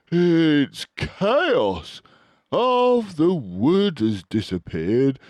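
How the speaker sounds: excited. A narrator's reading. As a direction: burst in with alarming news. Badger describing disaster.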